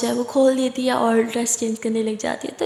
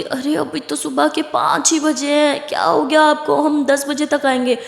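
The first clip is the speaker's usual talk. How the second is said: surprised protest; 4 semitones higher than usual. Acted. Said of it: "लिली बोलती".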